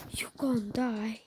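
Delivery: slow whispered "You gon' die.". Shown as a demonstration. Gamer whispers a doom threat to himself, slow. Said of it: "You gon' die".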